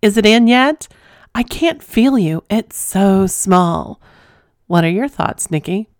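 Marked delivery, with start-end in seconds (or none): 0.0-4.0 mocking girlfriend. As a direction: tease him like the girlfriend who can't feel it. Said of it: "she kept yelling".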